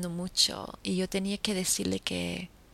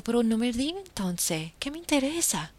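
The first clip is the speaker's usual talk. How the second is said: exasperated retort; 5 semitones higher than usual. Retold or imitated.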